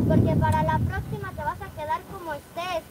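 loud threatening warning; angry threat. Acted. Mother threatening her son over his fake spells, loud anger. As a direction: threaten him loudly.

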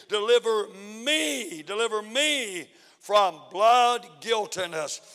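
slow, grave scripture; scripture reading. Acted. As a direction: let deliver me sink in slowly. Reading psalm aloud.

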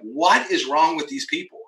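mild mock outrage at others' failings; a touch of baffled irritation; exasperated. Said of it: "I'm, like, getting mad".

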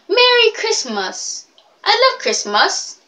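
high put-on mimicry of their Christmas; mocked pronunciation. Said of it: "They were like".

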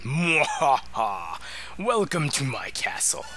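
slow evil laugh, grand villain welcome; slow theatrical villain menace. Acted. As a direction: drawl it like a gloating dark lord. Reads villain Exdeath line.

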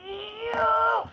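high shouted cheer; excited cheer. Real, not acted. Kid cheering at fire kitten.

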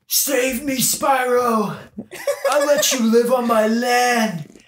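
high-pitched cry for help; hammed-up begging shout; mock desperate plea. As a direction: call out like someone going under. Acting a plea for rescue.

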